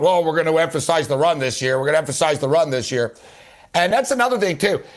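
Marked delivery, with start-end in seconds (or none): 0.0-1.8 half-hearted mock quote of the empty annual promise; mock team promise. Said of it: "have been talk". 1.8-3.1 rattled off fast and lower, a tired repeat; fast mocking echo of the empty promise. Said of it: "have been talk".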